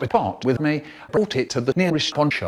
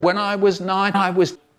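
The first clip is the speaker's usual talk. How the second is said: feeble, weedy, high-pitched little voice; 6 semitones higher than usual. Stuck floating on the water at dusk, the narrator speaks in a weedy little voice. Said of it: "In a weedy little voice I say".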